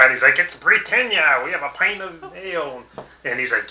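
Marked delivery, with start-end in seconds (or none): 0.4-2.8 British guy. Retold or imitated. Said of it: "like, a British guy".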